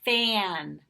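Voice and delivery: announced answer. Shown as a demonstration. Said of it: "and we have".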